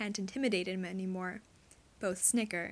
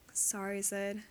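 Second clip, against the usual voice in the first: apologetic; 3 dB quieter, slower than usual. Acted. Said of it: "he does sound truly apologetic".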